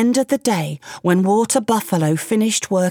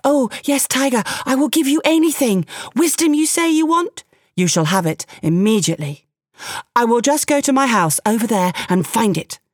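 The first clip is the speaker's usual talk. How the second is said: higher, eager, fawning man's voice; a quick-talking man flattering a tiger, pitched up; frightened man; 4 semitones higher than usual. Acted. The man, scared of Tiger, fawns and plays along, higher.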